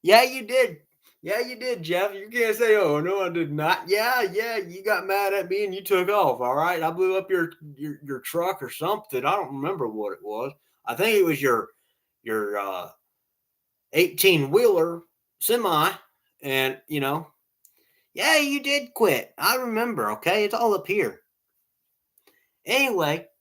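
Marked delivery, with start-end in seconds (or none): 0.0-6.8 higher-pitched, argumentative comeback; insistent rebuttal. Real, not acted. Arguing with his uncle over who quit, insistent rebuttal. 18.1-21.2 insistent. Real, not acted. Telling his uncle he remembers him quitting, insistent.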